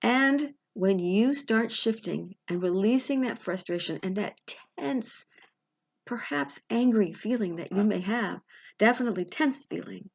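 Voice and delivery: unhurried guided-meditation voice with long pauses; guided visualization. Real, not acted. Coach guiding listeners to release frustration, guided-meditation delivery. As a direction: lead the listener step by step, pausing between phrases.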